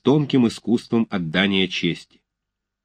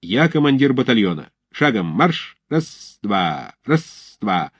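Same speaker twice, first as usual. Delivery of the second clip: shouting drill sergeant; 3 semitones higher than usual. Acted. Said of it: "приказывает Тучапский".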